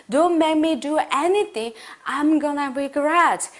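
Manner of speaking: slow, measured warning. Shown as a demonstration. Teacher shows learners a threat about future regret, warning. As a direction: warn them off, word group by word group. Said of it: "경고하면서 해보실게요".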